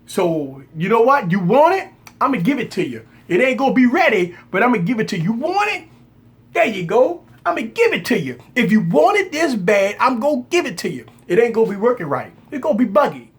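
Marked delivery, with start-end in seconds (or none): 1.3-13.3 higher, exasperated mock offer; sarcastic giving in. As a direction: hand it over with a sneer. Mock giving in to impatient fans.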